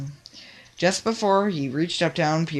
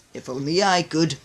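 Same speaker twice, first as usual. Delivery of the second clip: moaning. A narrator's reading. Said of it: "moaned Sunshine".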